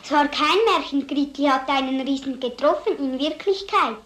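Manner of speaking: put-on insistent child. Child insists, contradicting teacher.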